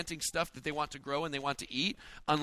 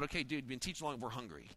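low, soft grumbling from the crowd; mutter of hungry crowd; 5 semitones lower, 11 dB quieter than usual. Retold or imitated. Hungry crowd muttering under their breath to the preacher. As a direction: mutter it like a tired, hungry listener.

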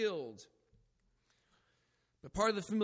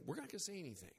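hushed resolve; 12 dB quieter, much faster than usual. Retold or imitated. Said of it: "started saying".

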